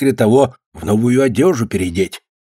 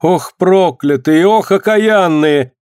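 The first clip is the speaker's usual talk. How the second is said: lament; 6 semitones higher, slower than usual. Acted. Alyona curses, lamenting.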